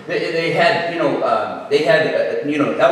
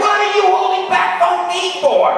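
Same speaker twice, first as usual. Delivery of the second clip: high-pitched mock outrage; indignant protest; 13 semitones higher than usual. Young self protests being left out.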